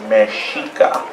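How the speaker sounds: Mexica said as me-SHEE-ka; correct pronunciation. Shown as a demonstration. Teacher gives the people's own name, Mexica with sh. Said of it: "we want you to say that".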